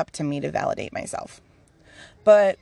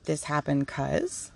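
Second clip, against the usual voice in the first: slow, soft, lower explanation; gentle but firm; 4 semitones lower, 6 dB quieter, slower than usual. Acted. Spirit explaining to the speaker why it happened, gentle but firm. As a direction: ease into it kindly but steadily. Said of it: "gently but firmly going".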